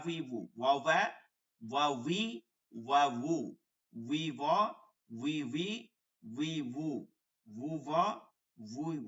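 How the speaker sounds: ওয়া, উই, উ each starting on a round w; rounded-lip w. Shown as a demonstration. Teacher drilling with rounded lips, w in ওয়া. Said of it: "ঠোঁট গোল করিয়া".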